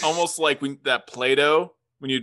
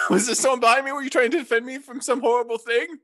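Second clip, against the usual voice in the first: mock surprise; 7 semitones higher than usual. Acts shocked at attack.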